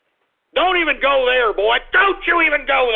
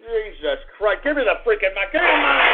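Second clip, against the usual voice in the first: shouting demand; 2 semitones lower than usual. Acted. Demanding the mic angrily.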